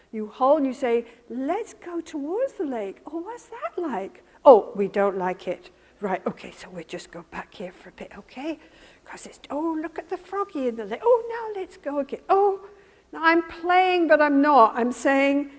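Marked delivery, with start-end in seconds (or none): 1.3-12.6 gentle coaxing. Acted. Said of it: "the way a good attachment figure does".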